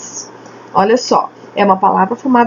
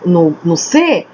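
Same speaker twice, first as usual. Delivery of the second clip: slow demo; much slower than usual. Shown as a demonstration. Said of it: "A palavra aqui no".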